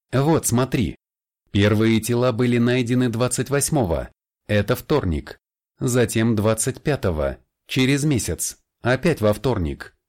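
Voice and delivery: a hint of an excited coworker; lightly voiced colleague. Colleague Larry's voice in dialogue. (слегка оживлённый голос коллеги)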